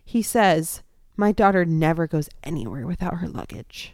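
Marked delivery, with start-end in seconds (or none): 1.2-4.0 put-on very serious delivery. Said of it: "this most serious".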